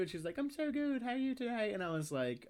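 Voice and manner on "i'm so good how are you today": very high, cheery British impression; mock British lady; thick British accent. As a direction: imitate a British lady, pitched way up. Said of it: "British accent".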